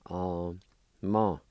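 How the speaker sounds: two separate syllables, "um, ma"; sounded out. Shown as a demonstration. Teacher giving the second part of the word, sounded out. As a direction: say "um" and "ma" apart. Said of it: "Second part".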